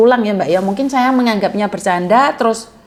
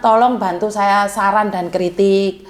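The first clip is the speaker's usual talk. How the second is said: earnest plea; 4 semitones lower than usual. Retold or imitated. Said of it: "saya selalu bilang".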